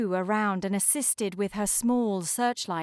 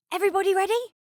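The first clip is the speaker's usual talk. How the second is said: loud, higher call to the crew; rally the team before the pull; taking command; 11 semitones higher, 6 dB louder, much faster than usual. Acted. Snow calling out to the icebreakers before towing, loud and commanding. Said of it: "taking command".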